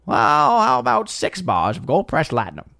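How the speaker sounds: lightly put-on character voice; mock the stock line from every episode; hint of a parody character voice; mimicked TV character. Mimicking the show's recurring line.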